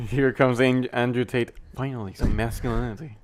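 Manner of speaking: loud, hammed-up hype intro; mock announcement. Friend mock-announcing Andrew Tate to his friend, loud hype. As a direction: announce him like a big entrance.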